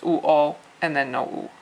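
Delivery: oo into o with no oo at the end; sounds of wo. Shown as a demonstration. Teacher shows how wo ends without oo, sounds split. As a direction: glide oo to o and stop. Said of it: "you don't end with an oo".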